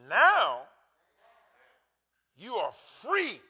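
slow, rising to a loud POWER; preacher slowly building to a shout; building proclamation. Acted. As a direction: build each word until it booms. Preacher building up scripture line.

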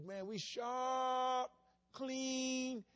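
slow, high, drawn-out boast; proud boast. Retold or imitated. Proud memory of awards day.

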